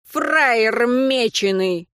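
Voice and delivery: high, cock-a-doodle screech; crowing rooster voice. Acted. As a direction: crow it like a rooster. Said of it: "по-петушиному кукарекающего". (петушиное кукареканье)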